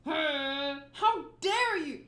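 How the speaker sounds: be scandalised and let it ring; horrified crewman shouting down the insult; outraged pirate. Acted.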